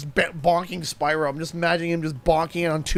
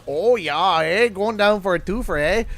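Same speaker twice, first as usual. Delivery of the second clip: put-on Canadian accent. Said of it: "the way to be able to compare it".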